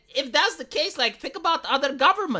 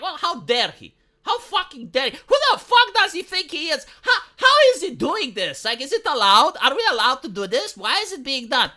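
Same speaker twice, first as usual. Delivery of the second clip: higher, louder, hammed-up indignant sputtering; mock outrage; 4 semitones higher, 3 dB louder than usual. The EU fuming at Trump's order, hammed-up outrage. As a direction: play an outraged official, half-mocking. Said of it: "And everyone is like".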